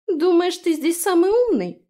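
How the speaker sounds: high, loud indignant retort. Acted. The fairy snaps indignantly at Frey. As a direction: snap back, offended. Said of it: "возмутилась фея".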